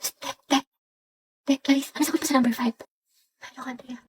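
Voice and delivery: hushed whisper during the test; student whispering for the answer during a test. Acted. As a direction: whisper so the teacher won't hear. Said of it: "may naririnig na ako nagbubulungan".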